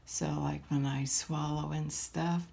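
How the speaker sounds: talking through a swollen throat; swollen tonsils voice. Real, not acted. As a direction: sore throat voice, speaking carefully. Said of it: "my throat is swollen".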